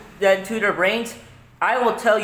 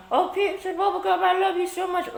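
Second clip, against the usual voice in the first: cartoon princess; 11 semitones higher than usual. Gushing to the toy again.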